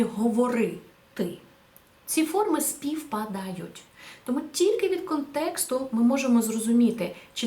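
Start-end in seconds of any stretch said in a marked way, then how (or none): 0.0-1.4 slow commanding imperative. Shown as a demonstration. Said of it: "в значенні".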